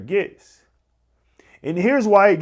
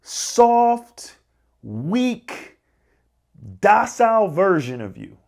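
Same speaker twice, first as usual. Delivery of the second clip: soft, slow, meek voice; soft weak voice; 2 semitones higher, slower than usual. Shown as a demonstration. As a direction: mimic a timid inner voice. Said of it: "It sounds like this".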